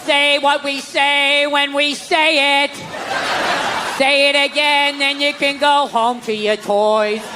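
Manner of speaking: hammed-up preacher barking orders slowly; mock stern church teacher. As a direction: drill the words in slowly like a Sunday school teacher. Church voice ordering child repetition.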